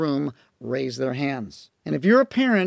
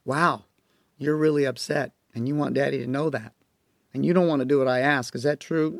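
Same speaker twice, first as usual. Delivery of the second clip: soft, calm reassuring dad voice; gently name the child's feelings; modeled calm talk; 4 semitones lower, 4 dB quieter than usual. Shown as a demonstration. Dad modeling calm talk to a backtalking child. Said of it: "I model it for her".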